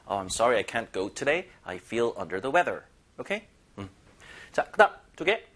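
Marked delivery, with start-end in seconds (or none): 0.1-2.8 slow model text. Acted. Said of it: "문자로도".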